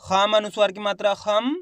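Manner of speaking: teacher's drill landing on a half m in "खम"; spelling-out demonstration. Shown as a demonstration. Teacher repeating the sound for students, spelling-out demonstration. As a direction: spell it out with "खम" rising and closed on m. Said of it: "कैसे उच्चारण हो रहा है?".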